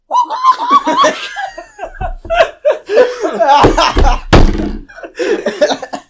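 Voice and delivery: high, loud mimicked kid hollering; imitated kid's yell. Retelling the kid's try at the speaker, high mock yell. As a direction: hoot it like a little kid. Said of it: "he's like".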